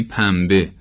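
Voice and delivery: پنبه said as "pambe", the ن turned into m; pronounced with m. Shown as a demonstration. Teacher gives another example, پنبه pronounced "pambe". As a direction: close the lips for an m before the b in پنبه.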